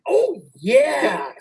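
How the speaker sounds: high, relieved "oh, yeah"; a sudden, high dawning of understanding; patient's realisation. Retold or imitated. Patient finally understanding the question, in a high, relieved voice. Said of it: "patient finally understands".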